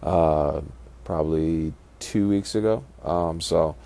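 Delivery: blocked nose from a fractured nose; stuffy nose. Real, not acted. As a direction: talk through a stuffed-up nose. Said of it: "if it sounds a little nasally".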